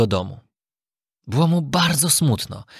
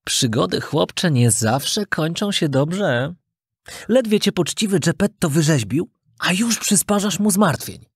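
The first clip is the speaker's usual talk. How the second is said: wise talking cricket; 4 semitones higher than usual. Acted. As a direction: caution the boy patiently. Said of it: "powiedział świerszcz".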